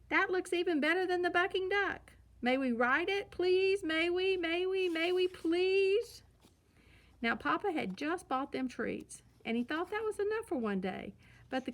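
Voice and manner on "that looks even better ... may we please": high, eager pleading, slowing on the last please; begging cubs. A narrator's reading. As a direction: beg like kids who want the ride badly.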